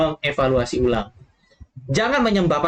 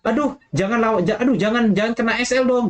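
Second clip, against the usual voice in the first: mock-pleading in a higher voice; panicky pleading trader; 5 semitones higher than usual. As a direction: beg the market not to move, half-joking. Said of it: "dia itu seperti". (memohon panik dengan nada lebih tinggi, setengah bercanda)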